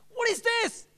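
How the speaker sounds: mild mock outburst of a fed-up young priest; retold anger. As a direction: replay the frustration without full force. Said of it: "I was very angry".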